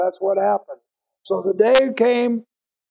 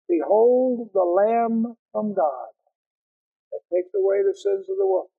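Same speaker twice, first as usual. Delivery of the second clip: proclaiming John. Acted. Preacher quoting John the Baptist.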